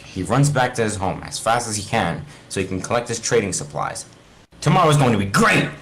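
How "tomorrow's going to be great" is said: eager, raised voice for tomorrow; excited. Acted. Steve telling himself tomorrow will be great, eager. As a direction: sound thrilled about the day ahead. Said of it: "he says".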